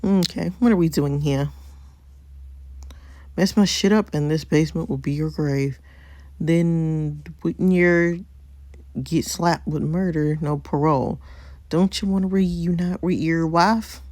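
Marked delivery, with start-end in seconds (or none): 3.4-14.0 put-on country accent. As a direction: read the threat in a rough attempt at a country accent. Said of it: "That sound like country or Scottish".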